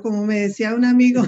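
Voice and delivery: quick words breaking into a laugh. Real, not acted. Panelist amused by her own joke, laughing through it. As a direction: rush it out as the laugh starts.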